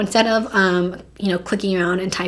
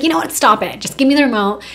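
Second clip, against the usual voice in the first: higher, louder, irritated outburst; fed up; 4 semitones higher, 5 dB louder, faster than usual. Acted. Telling her giggling boyfriend to quit messing, irritated. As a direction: cut him off, loud and annoyed. Retold snapping at teasing boyfriend.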